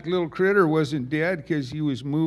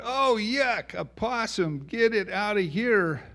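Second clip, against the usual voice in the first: put-on disgusted kids; 6 semitones higher than usual. Neighbor kids react in disgust.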